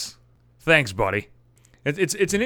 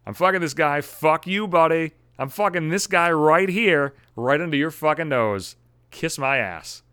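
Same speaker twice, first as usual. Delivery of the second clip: mock taunting ex; 3 semitones higher than usual. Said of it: "I wonder if she was thinking".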